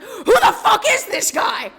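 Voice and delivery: cracking up while doubting mid-prayer; hammed-up bewildered outburst; laughing disbelief. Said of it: "I looked up and I was like".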